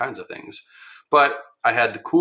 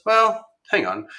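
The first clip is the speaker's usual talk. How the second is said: higher, slower, drawn-out hang on; engineer reconsidering; 11 semitones higher, 5 dB louder, slower than usual. Retold or imitated. Engineer on site stops to reconsider, high and slow. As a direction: let the engineer stop and think.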